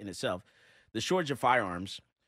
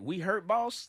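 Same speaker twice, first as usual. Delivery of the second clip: higher-pitched, put-on pleading question; mock servile slave; 7 semitones higher, slower than usual. Host mocking slave mentality on air, mock servile voice. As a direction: imitate an over-loyal servant, pitched up. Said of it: "when the slave master get hurt, it's like".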